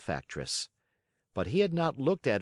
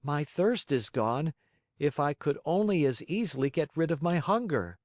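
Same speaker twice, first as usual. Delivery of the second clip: put-on high-pitched puppet boy, mildly grumbling; grumbling Pinocchio; 7 semitones higher than usual. A narrator's reading. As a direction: grumble lightly in a high boyish voice. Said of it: "he grumbled".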